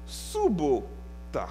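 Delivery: subota said very slowly and softly; Ukrainian word. Shown as a demonstration. Preacher teaching the Ukrainian word, slowly and softly. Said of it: "Et puis en ukrainien".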